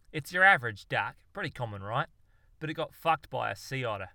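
lightly voiced Aussie know-it-all, a bit loud on the opening; hint of a loud Australian lecturer; brash Aussie bloke. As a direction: play the cocky outback expert. Darwin explains evolution in character.

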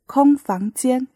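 空 in 空房间 held level and high, first tone; first tone demo. Shown as a demonstration. Teacher showing students the first tone of 空, clear and level. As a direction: sing 空 out flat and high, a steady first tone. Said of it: "You will pronounce 空 the first tone".

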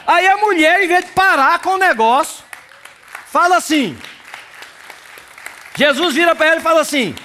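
fiery pulpit preaching; full-force preaching. Acted. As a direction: preach it out to the congregation.

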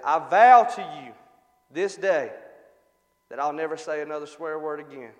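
halting mock-solemn vow with pauses; real slow, solemn. Chastened parrot vowing to its owner, slow and solemn. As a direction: swear it slowly, word group by word group. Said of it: "just real slow like, and he said".

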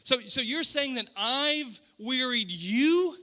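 slow, drawn-out disbelieving question; incredulous. Acted. God answering his people, slow exasperated disbelief. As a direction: stretch it out like an exasperated parent. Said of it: "that's kind of the dialogue".

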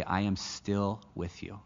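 slow, soft and tender; gentle God's voice. Acted. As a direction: reassure them as God would, slowly. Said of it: "but God would say".

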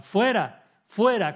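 retold crowd yell against the accused; crowd shouting. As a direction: yell it like an angry mob. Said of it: "ellos gritaron".

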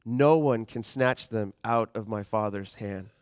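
slow, with weight on No; slow emphatic reading. Acted. Pastor closing the reading for the church, slow and emphatic. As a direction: lean into No and take it slowly. Repeats the promise slowly.

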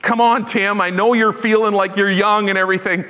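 mildly voiced Paul nudging a timid young man; Paul urging Timothy. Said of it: "Paul was the one that wrote to Timothy".

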